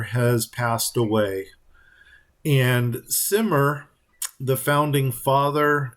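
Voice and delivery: slow, solemn storyteller telling; story time voice. Pretend. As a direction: draw it out like a sad old legend. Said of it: "okay, story time".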